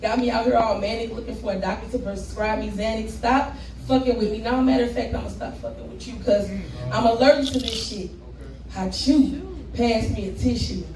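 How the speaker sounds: rhythmic poem delivery with rising punchlines; spoken word performance. Acted. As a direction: perform it like slam poetry.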